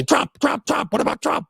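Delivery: high, whiny mock chant of Trump Trump Trump; mocking whataboutism. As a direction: parrot the defenders in a high sneering voice. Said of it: "All they do is say".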